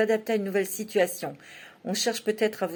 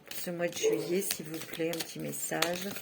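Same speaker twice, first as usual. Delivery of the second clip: soft, low murmur asking the cards; quiet, intimate plea to the oracle; hushed request; 4 semitones lower, 9 dB quieter than usual. Real, not acted. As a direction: ask the cards softly, almost to yourself.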